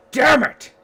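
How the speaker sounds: urgent high-pitched battle yell. Acted. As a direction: holler it out to allies across the fight. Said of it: "just hear him yell".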